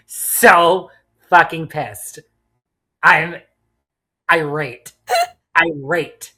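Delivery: slow, loud opening, then measured indignation; exasperated, playful outrage. Real, not acted. Player fuming at a friend over an impossible choice, exasperated. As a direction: let each furious word land on its own. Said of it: "I am so pissed at you".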